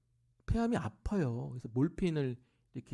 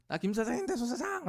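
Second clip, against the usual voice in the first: higher, put-on voice of a cheeky mother; mock mother voice; 11 semitones higher than usual. Mother greeting the preacher as a fellow boss, high and playful. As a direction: act out the mother's playful introduction.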